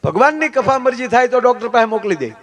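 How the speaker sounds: high, emphatic oratory; forceful preaching. Real, not acted. Preacher warns audience about officers and doctors, high forceful preaching. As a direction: proclaim it to the whole hall.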